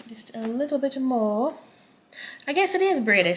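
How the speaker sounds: a hint of a British accent; lightly put-on British accent, playful. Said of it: "Look at you with your British accent over here".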